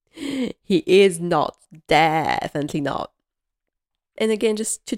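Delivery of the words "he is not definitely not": laughing imitation.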